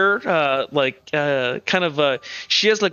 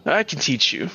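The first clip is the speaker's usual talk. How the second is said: lightly voiced masked mentor, measured and a little lower; masked man; 3 semitones lower than usual. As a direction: explain it like a patient, slightly formal scholar. Masked man speaks as character.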